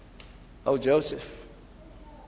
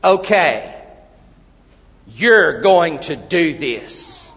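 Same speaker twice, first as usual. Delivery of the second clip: demanding woman; 5 dB louder, much slower than usual. Retold or imitated. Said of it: "she's demanding".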